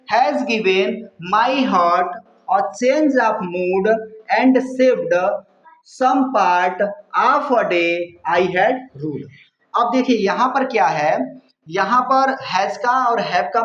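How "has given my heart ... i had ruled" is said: slow, measured reading of verse; unhurried poetry reading; poem recitation. Acted. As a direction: draw each line of the poem out slowly. Reads poem lines slowly.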